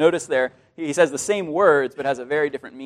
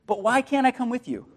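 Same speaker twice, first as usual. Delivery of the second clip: impatient Peter; 8 semitones higher than usual. Acted.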